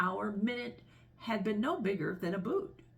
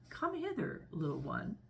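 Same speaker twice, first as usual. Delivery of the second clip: coaxing crocodile; 5 dB quieter than usual. Acted. Crocodile beckons the elephant's child, softly coaxing. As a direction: softly lure the little one closer. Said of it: "said the crocodile".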